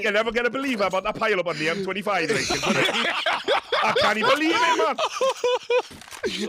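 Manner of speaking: fast, high hammed-up Geordie accent with a laugh; mock Geordie newsreader. Caster spoofing a Geordie newsreader, hammed-up Geordie accent. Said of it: "unintelligible Geordie gibberish".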